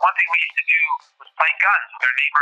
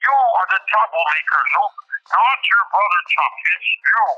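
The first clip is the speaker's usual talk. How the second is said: higher, scolding German neighbour; lightly voiced stern neighbour; 5 semitones higher than usual. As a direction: neighbour blaming the boy, mildly scolding. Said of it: "Eric Sutlin always said".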